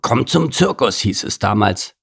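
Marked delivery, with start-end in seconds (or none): 0.0-1.0 grumbling mimicry. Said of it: "grummelte Gerhard".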